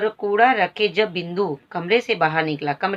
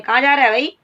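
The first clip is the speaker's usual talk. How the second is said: louder, higher demanding shout; angry yell; 5 semitones higher, 5 dB louder, faster than usual. Acted. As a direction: shout after the fleeing boy. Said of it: "चिल्ला के बोल रही है गुस्से में".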